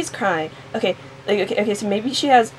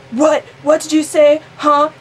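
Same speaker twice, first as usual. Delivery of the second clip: high, loud mock bafflement; startled questioning; 6 semitones higher, 5 dB louder than usual. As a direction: fire off questions in hammed-up surprise. Acted character's startled questions.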